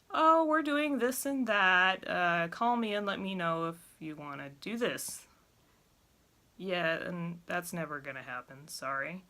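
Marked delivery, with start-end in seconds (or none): 0.1-5.3 mock caller message. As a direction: lightly voice a breezy caller. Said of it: "leave me messages saying".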